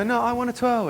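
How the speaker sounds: high, lightly mocking girl voice; whiny girl. Girl pleading with him for a twirl, mock whiny. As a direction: play the pouty girl begging for a turn. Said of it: "And they go".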